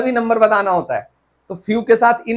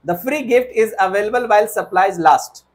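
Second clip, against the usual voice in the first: slow, deliberate wrong sentence; slow wrong version; much slower than usual. Shown as a demonstration. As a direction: read the wrong sentence out slowly.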